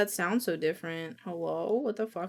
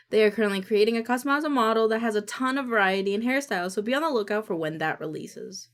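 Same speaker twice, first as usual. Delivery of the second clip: announcement read; faster than usual. Shown as a demonstration. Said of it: "I gotta re-record lines".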